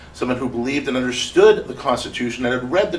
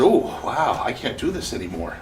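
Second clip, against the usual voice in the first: rueful laugh. Retold or imitated. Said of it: "And I said".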